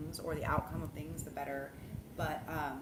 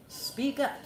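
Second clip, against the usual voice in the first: cheering; 7 semitones higher, 4 dB louder than usual. Real, not acted. Cheering on the goddess voice.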